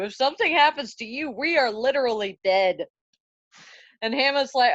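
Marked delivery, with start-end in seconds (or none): 0.0-2.9 fast, loud panicky outburst; panicked guard. Acted. Guards yelling at Hamlet not to follow the ghost, panicked. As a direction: blurt it out in alarm, rushing. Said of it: "Horatio and Marcellus are like".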